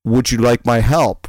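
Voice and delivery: imitated heavy European-ish accent. Stranger offering help at Costco, European accent. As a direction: attempt at a stranger's Russian-like accent. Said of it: "a heavy European-ish accent, and he says".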